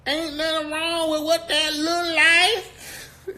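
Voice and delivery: very high, drawn-out mock Black accent; sing-song it in a hammed-up Black accent; put-on Black accent. Host mocks accent-switchers around black folk, exaggerated Black accent. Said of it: "They get to talking with a black accent".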